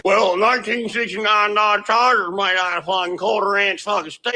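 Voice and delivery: lightly put-on know-it-all objector voice; a hint of a mocking voice; mocked objector. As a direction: parody a quibbling commenter. Voicing an imagined objector to mock.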